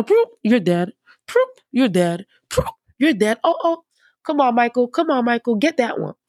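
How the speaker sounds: hammed-up Jesus zapping foes with a grin; playful smiting. Jesus joking to his Father and calling on angel Michael, playfully mock-gleeful. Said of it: "he could have been like".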